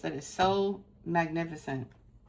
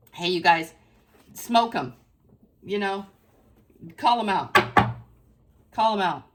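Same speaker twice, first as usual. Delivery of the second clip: a lightly played call through a pretend blowhorn, a touch louder; mock blowhorn call; 4 dB louder than usual. Reader pretends to rally the crowd with a blowhorn, playful call. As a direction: call out to the crowd half in fun. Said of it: "Let me get the blowhorn".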